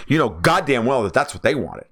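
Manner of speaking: ordinary talk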